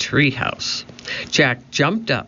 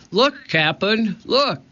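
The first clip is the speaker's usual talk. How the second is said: high, eager pirate crewman; excited calling; 8 semitones higher, slower than usual. A narrator's reading. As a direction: call out a thrilling find in a high voice. Pinky excitedly showing medallion.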